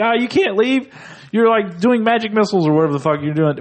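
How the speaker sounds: high-pitched cartoon kid voice; high, whiny impression of a cartoon kid; Cartman. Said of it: "He's like".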